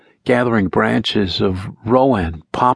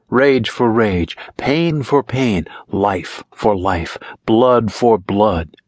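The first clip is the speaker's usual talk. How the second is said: slow, chanted spell, each pair weighed; slow witch's chant over the cauldron; slow incantation; slower than usual. A narrator's reading. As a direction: intone it like a ritual chant, slow. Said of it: "she spoke, swaying".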